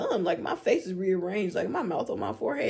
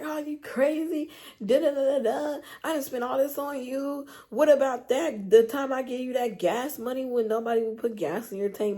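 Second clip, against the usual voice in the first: higher pitched mock yell of the boyfriend; mocking angry boyfriend; 5 semitones higher than usual. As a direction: imitate him ranting, pitched up. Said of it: "he was like".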